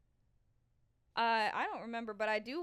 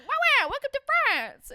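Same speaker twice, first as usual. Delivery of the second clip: mock French; 13 semitones higher, 10 dB louder, faster than usual. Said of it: "I was like".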